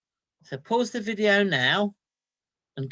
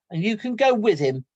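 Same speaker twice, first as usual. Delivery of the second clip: louder, firm scolding orders; scolding mother; 5 semitones higher, 7 dB louder than usual. Acted. Mother orders her son back to Nathan's, loud scolding. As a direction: send him off, no arguments.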